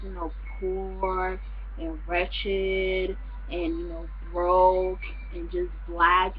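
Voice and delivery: slow, dragged-out words imitating disdain; mimicking a girl who looks down on Africans; mock condescension. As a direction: drawl it out like a clueless snob. Imitating the girl's prejudiced view.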